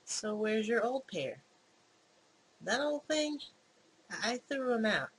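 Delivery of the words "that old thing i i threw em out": higher, flustered excuse; nervous stammer. Acted. Fake Mike lying to Sarah about his old glasses, stammering nervously. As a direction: stammer out a flimsy lie. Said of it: "Oh, he's stuttering".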